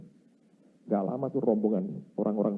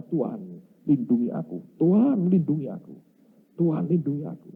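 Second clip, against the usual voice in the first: mock tearful cry; 3 semitones higher than usual. Boy kneeling at the elder's tent begs protection, mock tearful cry. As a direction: imitate a desperate cry for protection. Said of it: "Dia teriak-teriak, dia nangis, dia berkata".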